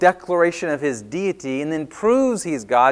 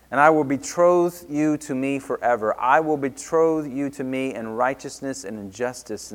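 scripture reading. Acted. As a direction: read the verses with solemn weight. Reads scripture passages aloud.

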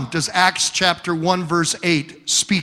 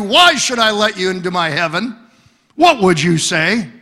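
preaching challenge; 3 semitones higher, 5 dB louder than usual. Retold or imitated. Preacher confronting workers.

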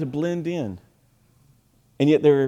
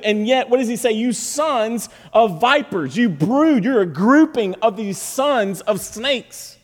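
forceful preaching; 8 semitones higher, 4 dB louder than usual. Real, not acted.

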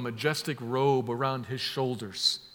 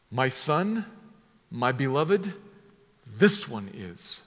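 "this" leaned on and falling, slowed at the end; literal word order; slower than usual. Shown as a demonstration. Preacher reading the literal Greek order, leaning on "this". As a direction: read it as a proclamation, landing on "this one is". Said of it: "That's the literal way it's put".

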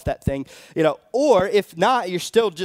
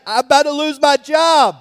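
much higher and louder, laughing in panic; panicked outburst; 9 semitones higher, 10 dB louder than usual. Retold or imitated. Husband panicking to his wife about his job, frantic cry. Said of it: "I flipped. I flipped hard".

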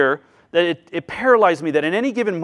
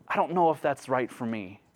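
softer, sweet and meek; 5 semitones lower, 8 dB quieter than usual. Shown as a demonstration. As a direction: say it softly, sweetly polite. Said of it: "we can say it in a sweet tone".

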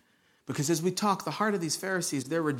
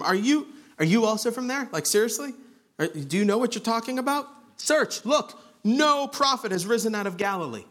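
higher-pitched, incredulous mock challenge; shaming; 6 semitones higher than usual. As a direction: act out shaming him with disbelieving questions. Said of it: "Shame the person".

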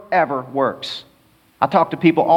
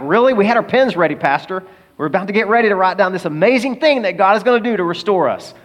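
mock disappointed congregation; 5 semitones higher than usual. Congregation's disappointed reply voiced.

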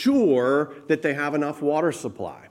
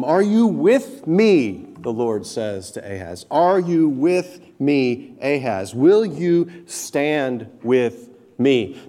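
earnest plea; 4 dB louder, slower than usual. Acted. The Lord pleading with Ahaz.

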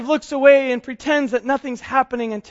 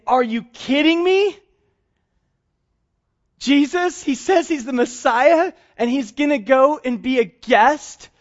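grumbling crowd; 2 semitones higher than usual. Acted. Crowd grumbles at Jesus visiting a sinner, mock indignant. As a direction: scoff at the guest choice in disbelief. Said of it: "The crowd started grumbling and saying".

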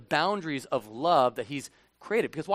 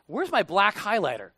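mock indignant listener; 3 semitones higher than usual. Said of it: "To which you're like".

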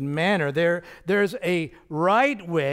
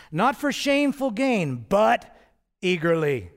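"Not" and "but" raised and louder; emphatic contrast; 4 semitones higher, 5 dB louder than usual. Shown as a demonstration. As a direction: drive the contrast home. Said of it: "Very strong, very emphatic".

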